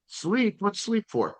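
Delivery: high, amused mock question; joking disbelief. Real, not acted. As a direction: laugh off the idea. Joking answer about no sleep.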